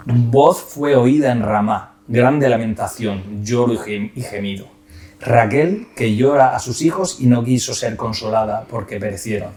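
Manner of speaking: steady, solemn reading of the Gospel; scripture reading. Acted. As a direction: read it like a church lesson. Reads the Gospel aloud.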